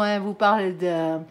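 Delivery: normal talking voice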